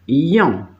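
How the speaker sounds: "yon" said alone with a y glide into a nasal vowel; second-half sound demo. Shown as a demonstration. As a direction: isolate "yon" as the tail of moyen. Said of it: "la leo para el otro lado". ("yon" pronunciado aparte, con i deslizada)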